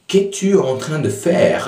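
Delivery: "Qu'es-tu en train de faire?" said with a lifted, textbook tune; a proper, bookish formal question; stiff formal French. Shown as a demonstration. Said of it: "very formal".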